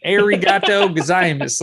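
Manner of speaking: hammed-up American accent in Japanese. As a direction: mimic Brandon's heavy American accent on arigato gozaimasu. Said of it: "saying Japanese stuff in that accent".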